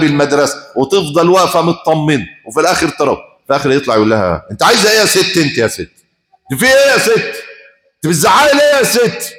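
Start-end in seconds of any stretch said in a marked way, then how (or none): 4.5-9.3 harsh mock yell at his mother, higher pitch; rude son yelling. Preacher mimics a son yelling at his mother.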